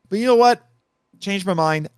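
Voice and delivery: high, punchy "know" then casual "Changed my mind"; mock dramatic reversal. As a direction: play the sudden change of heart for laughs. Jokey reversal of own pick.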